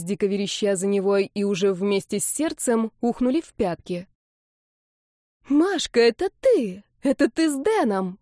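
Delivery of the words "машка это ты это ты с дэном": stunned shout. Acted. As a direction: shout it out, caught completely off guard. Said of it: "прокричала обескураженная Марина".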